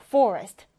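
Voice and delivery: 숲 뜻의 forest를 또박또박 시범 발음; forest, read aloud clearly for the class; model reading. Shown as a demonstration. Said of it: "같이 읽어보죠". (학생들에게 forest를 또박또박 읽어주는 시범 발음)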